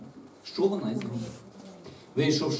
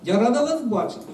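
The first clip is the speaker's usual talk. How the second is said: higher, louder gracious welcome; pleased, pitched-up hello; smiling greeting; 7 semitones higher, 5 dB louder than usual. A narrator's reading. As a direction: greet them gladly with a smile. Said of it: "всміхнулася маляка".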